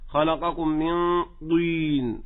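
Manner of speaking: slow, lips rounded on the ط of طين; over-round the heavy ط in طين; lip-rounded emphatic. Shown as a demonstration. Teacher imitating a common mistake, lip-rounded طين. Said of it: "هكذا".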